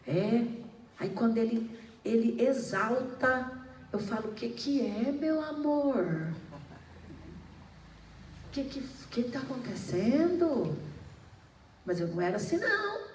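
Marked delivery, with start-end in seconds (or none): 4.3-10.8 gentle reply. Retold or imitated. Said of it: "Quando você abaixa o tom".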